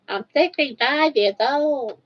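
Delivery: playing an old lady, gums only; toothless old lady. Mumbling toothless grandma. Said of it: "take my teeth out and I'm gonna say it".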